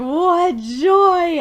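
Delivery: high, loud, hammed-up glee; exultant rejoicing. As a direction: crow it like a delighted villain. Acts out Aku's rejoicing.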